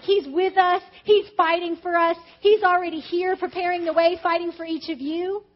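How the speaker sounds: rally the room, phrase by phrase; rousing declaration. Real, not acted. Rousing declaration of God's help.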